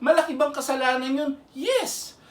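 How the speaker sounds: high, urgent, pressing the point; fervent preaching. Real, not acted. Preacher pleading with the unforgiving, fervent. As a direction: drive it home with rising fervor.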